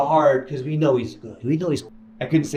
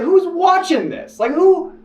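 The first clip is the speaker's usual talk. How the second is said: mock bit; 13 semitones higher, 3 dB louder, slower than usual. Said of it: "'Cause I'm trying to be funny".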